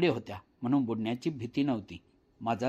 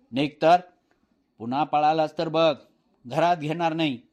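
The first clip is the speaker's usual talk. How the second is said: louder, stern mother's order; angry threat; 5 dB louder than usual. Acted. Mother driving her son to the well, stern loud threat. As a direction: snap the command then warn hard.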